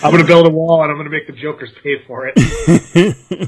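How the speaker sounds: jokey campaign boast that breaks into laughter; Trump. Retold or imitated. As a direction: punch out a mock campaign promise, then laugh. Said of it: "wanted to make this Trump".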